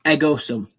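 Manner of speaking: ego sum said as EH-go sum; Latin demo. Shown as a demonstration. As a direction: say ego sum clearly, EH-go stressed. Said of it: "I am".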